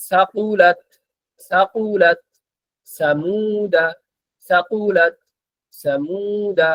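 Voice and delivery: each word recited crisply with a falling end; pronunciation drill. Shown as a demonstration. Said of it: "practice করি". (আরবি উচ্চারণ অনুশীলন)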